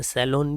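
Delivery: सैलून opening with "sai", ending in "lon"; alternative mispronunciation. Shown as a demonstration. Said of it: "भी बोलते हैं".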